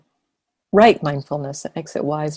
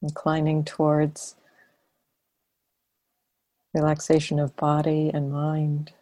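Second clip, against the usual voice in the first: unhurried meditation guidance with long silences; guided meditation. Acted. Teacher leading students into relaxed awareness, guided meditation. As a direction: guide them gently, phrase by phrase, leaving long pauses.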